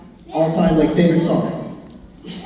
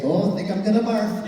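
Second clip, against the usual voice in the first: put-on Minnesota accent; 3 semitones higher, 3 dB quieter than usual. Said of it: "Minnesota accent".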